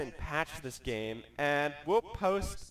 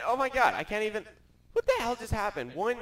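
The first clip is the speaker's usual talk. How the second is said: raging gamer; 6 semitones higher than usual. Real, not acted. Exasperated outburst at broken game.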